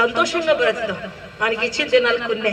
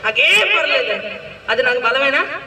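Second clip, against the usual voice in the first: bold declaration; 2 semitones higher than usual. Shown as a demonstration. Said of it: "ఎంత గట్టిగా చెప్పమంటే అంత గట్టిగా చెప్తాను".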